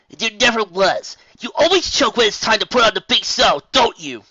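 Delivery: loud taunt. Acted. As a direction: drag out the mockery. Spitfire taunting Rainbow.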